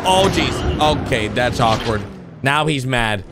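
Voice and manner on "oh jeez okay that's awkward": usual speaking voice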